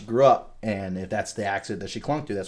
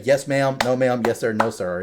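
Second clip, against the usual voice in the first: Southern manners; 3 semitones higher, 5 dB louder than usual. Shown as a demonstration. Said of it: "you say".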